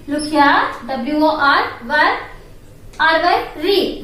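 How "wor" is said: WOR- said as a separate first syllable; teacher isolating WOR-, the start of worry; syllable demo. Shown as a demonstration. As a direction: sound out WOR- by itself for learners. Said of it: "how to pronounce that word?".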